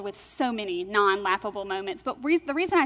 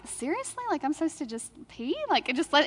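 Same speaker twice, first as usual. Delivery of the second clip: incredulous; 4 semitones higher than usual. Retold or imitated. Shocked retort to the nurse.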